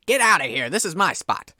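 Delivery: a hint of a grumpy old fisherman shooing someone off. Fisherman shooing the player off his spot, mildly grumpy. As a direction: bark it like a territorial old angler. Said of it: "He looks at you and he goes".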